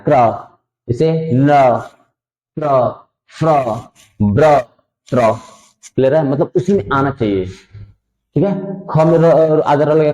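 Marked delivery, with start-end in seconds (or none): 0.1-5.3 क्र, प्र, फ्र, ब्र, त्र each said quickly as one syllable; teacher reading clusters. Shown as a demonstration. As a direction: drill the r-clusters crisply, one by one. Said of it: "तुरंत पढ़ना है". (हर संयुक्त अक्षर तुरंत एक साथ)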